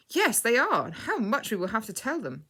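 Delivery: high, loud excited answer; bursting to tell his news. A narrator's reading. Freddy answers about his parents coming home, excited. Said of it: "he said excitedly".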